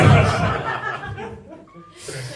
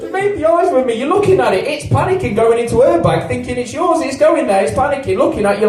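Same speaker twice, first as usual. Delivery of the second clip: mock panic; 6 semitones higher than usual. Acting out the panicking sausage.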